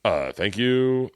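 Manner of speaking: slow, hesitant mock thanks; caught off guard. Imitating a comedian thanking an unknown fan, caught off guard. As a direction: stretch it out like someone imitating a baffled thank-you. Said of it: "he was totally caught off guard".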